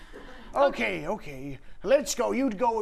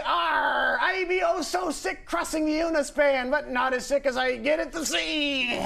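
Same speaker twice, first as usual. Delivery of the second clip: higher, hammed-up pirate shout; 4 semitones higher than usual. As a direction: bellow it like a pirate. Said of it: "You'd say".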